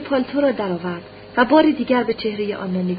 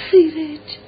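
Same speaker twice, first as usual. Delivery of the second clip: put-on louder, higher cry of the child's name; emotional call; 5 semitones higher, 6 dB louder, much slower than usual. A narrator's reading. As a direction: call out to your long-missed son. Mother calls her son louder. (صدا زدن بلند و پراحساس)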